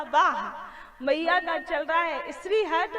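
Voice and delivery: chuckling little Krishna plotting; amused child god. Acted. Baby Krishna voiced amused, laughing. (हँसते हुए बाल कृष्ण)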